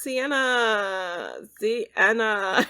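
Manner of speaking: loud, drawn-out calling of a name. Real, not acted. Streamer greeting her dead Sim's ghost, calling out loud. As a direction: call her like she's across the yard.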